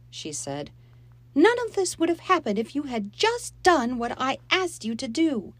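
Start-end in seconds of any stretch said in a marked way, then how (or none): 1.3-5.5 tearful reproach. Acted. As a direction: reproach her through tears. Mom reproaching.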